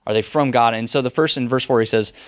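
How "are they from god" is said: louder, pressing the question home; emphatic repeat. Shown as a demonstration. Preacher repeats the question to his congregation, louder and insistent. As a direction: hit it again with force.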